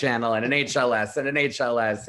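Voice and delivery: lightly voiced talk-show giveaway; a hint of a talk-show host handing out prizes; Oprah giveaway. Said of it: "So I'm kind of like the Oprah of".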